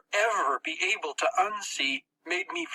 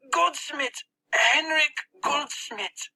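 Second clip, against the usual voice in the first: put-on higher, slow pained boy voice; 12 semitones higher, much slower than usual. Max naming the target with his arm twisted. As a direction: force the name out, slowly. Max gives the name in pain.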